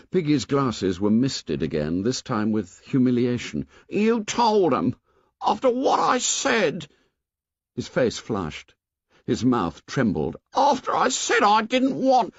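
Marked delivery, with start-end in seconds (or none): 3.9-12.3 put-on high, plaintive boy voice; insist, hurt and left out; Piggy voice. A narrator's reading.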